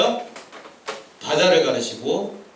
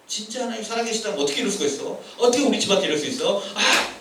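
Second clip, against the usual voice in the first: quick, mild mock grumble; retold annoyance; faster than usual. Preacher retelling own complaint to God, quick mild irritation. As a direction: rattle off a protest to God. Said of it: "짜증을 많이 내시기 바랍니다".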